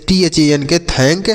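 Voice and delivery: spelled out letter by letter, then "thank" said clearly; spelling then word. Shown as a demonstration. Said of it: "इसे हम पढ़ेंगे thank". ("thank" को अक्षर-अक्षर बोलकर फिर साफ़ उच्चारण)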